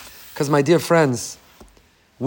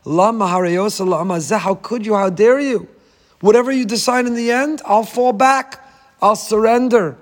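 pleading protest; 4 semitones higher than usual. Retold or imitated. Pleading with God in prayer.

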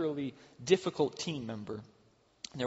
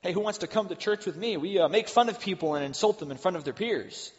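ironic cheerful invite; 5 semitones higher, 4 dB louder than usual. Pretend.

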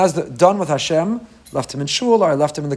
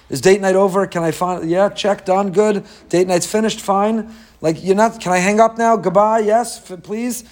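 higher, hurried mock impatience; acted impatience; 4 semitones higher than usual. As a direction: play someone itching to end the conversation. Acts impatient spouse wanting to finish.

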